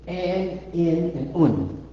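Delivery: "and, in, and un" drawn out slowly; vowel demonstration. Shown as a demonstration. Teacher shows students the little vowels, slow and separated. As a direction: sound out "and, in, un" one by one. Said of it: "The little, the vowels".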